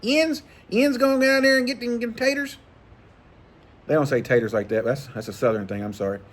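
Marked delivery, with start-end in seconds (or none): 0.0-2.6 very high-pitched, squeaky Yinzer caricature; mocking Pittsburgh Yinzer talk. Southerner mocking how Pittsburgh locals talk, high-pitched Yinzer voice. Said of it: "you're talking".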